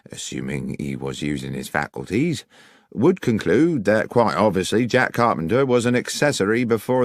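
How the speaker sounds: lightly voiced officious policeman; stiff, self-important reply; sergeant, cool. Sergeant Berry answers Holmes, lightly voiced and officious.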